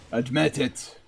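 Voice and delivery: put-on Irish accent. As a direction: say it quietly with an amateur Irish accent. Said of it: "my Irish accent is not that bad".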